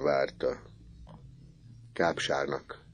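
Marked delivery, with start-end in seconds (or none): 1.9-2.8 hushed, much softer; whispered. A narrator's reading. Misi whispering to Orci, hushed. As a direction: whisper it to your friend. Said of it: "súgta neki Misi".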